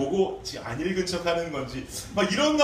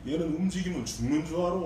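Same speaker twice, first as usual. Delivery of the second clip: Chungcheong dialect. Retold or imitated. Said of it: "말투가 이렇게 충청도 말이 나오는데".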